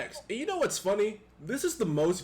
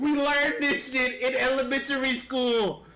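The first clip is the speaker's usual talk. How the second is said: high, laughing scolding; 6 semitones higher than usual. Real, not acted. Laughing rant at friends.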